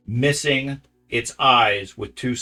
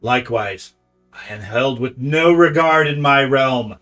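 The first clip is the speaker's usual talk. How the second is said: loud, hissing creature voice; 4 semitones higher, 6 dB louder than usual. Acted. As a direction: hiss out an ancient blind oracle. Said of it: "to speak out in a hissing voice".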